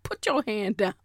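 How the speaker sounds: badly faked Jamaican accent; dismissive order in a mock Jamaican accent; lightly imitated Jamaican granddaddy accent; horrible Jamaican accent. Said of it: "this is a horrible Jamaican accent".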